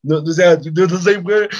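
mock scared denial. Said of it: "me asusté y dije".

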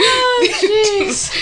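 high, loud laughing words. Real, not acted. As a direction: laugh through it. Laughing at friend's rap.

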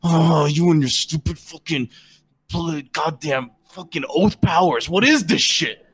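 slow, scornful grumble; disgusted orc rant. Acted. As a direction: sneer at the paladin's powers. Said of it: "He's like".

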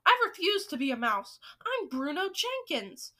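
loud, defiant refusal; indignant, self-important outburst; shouted tantrum. A narrator's reading. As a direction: shout it like a tantrum, stretching the name. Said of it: "shouted, jumping up and down".

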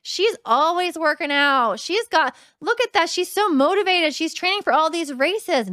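gushing onlooker, only lightly put on; impressed follower. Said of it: "You could look at my Instagram and be like".

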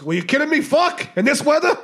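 high, loud mock outrage; incredulous yell. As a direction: shout the punchline in hammed-up disbelief. Drunk man's outraged punchline.

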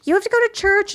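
high-pitched scolding mother; nagging mom voice. Retold or imitated. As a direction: nag like a strict mom. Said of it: "your mom is like".

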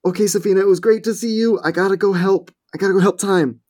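high, fast, eager goodbye; hurried. Acted. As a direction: rush the words out, eager to go. Mina hurries off to help.

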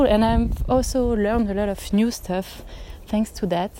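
winded while walking and talking; talking out of breath from walking. Real, not acted. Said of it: "Sorry, I'm out of breath".

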